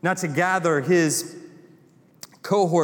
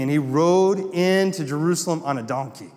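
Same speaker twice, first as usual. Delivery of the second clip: southern accent. Real, not acted. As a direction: let a touch of North Carolina Southern accent in. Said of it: "Man, I got really southern there".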